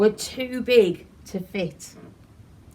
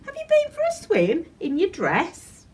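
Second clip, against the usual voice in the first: high, loud laughing tease; mock the soaked fairy playfully; high amused bunny voice; amused teasing; 11 semitones higher, 4 dB louder than usual. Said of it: "he laughed".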